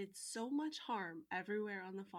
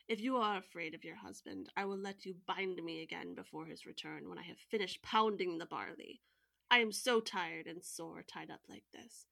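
sad and gentle; 4 dB louder than usual. Acted. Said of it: "in a very sad and gentle voice".

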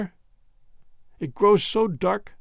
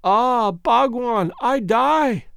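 raised, gasping dying words; a stabbed girl gasping to her lover; gasped; 5 semitones higher, much slower than usual. Acted. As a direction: gasp it out with failing breath. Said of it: "gasped the beautiful creature".

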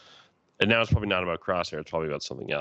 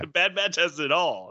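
high, thrilled exclamation; excited; 11 semitones higher than usual. Retold or imitated. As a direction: gush about the show. Retelling his excited reaction.

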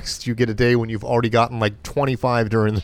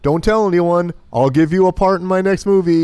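sleazy mogul voice; 5 semitones higher, 3 dB louder than usual. Retold or imitated. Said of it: "acting the mogul".

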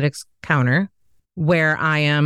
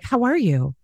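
chirpy cold-caller; 6 semitones higher than usual. Acted. Repeats the scripted cold-call greeting.

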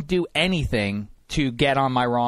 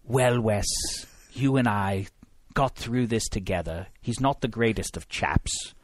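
soft, low, lightly put-on Wes; lightly voiced Wes consoling Hank; a hint of Wes's accent, softer; 4 semitones lower, 5 dB quieter than usual. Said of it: "conversation with Chris Wesseling".

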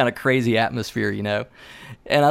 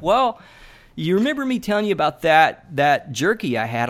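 sheepish confession; 4 semitones higher than usual. Retold or imitated. Josh confessing his mistake.

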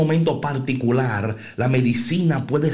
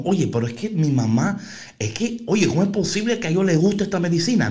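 put-on childish complaining voice; 5 semitones higher, faster than usual. Niños quejándose de la medicina.

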